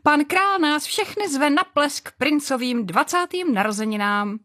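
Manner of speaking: high, thrilled announcement; bubbling over about the ball; excited. A narrator's reading.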